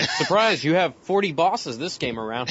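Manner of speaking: high, loud gleeful reveal; spring a fake surprise on the player, loudly; mock surprise announcement. Mock voice for game's twist.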